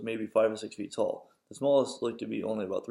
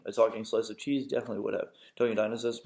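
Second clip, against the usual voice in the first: plain reading voice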